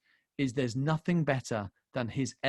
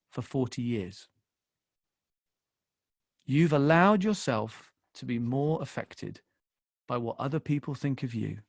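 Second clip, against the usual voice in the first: God the Father; 3 semitones lower than usual. Retold or imitated. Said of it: "I suddenly felt the Father say".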